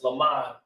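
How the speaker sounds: "lamad" as luh-MAHD; pronounced "lamad". Shown as a demonstration. Teacher gives the word to repeat, sounding out "lamad". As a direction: model "lamad" with an open second syllable. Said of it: "that's pronounced".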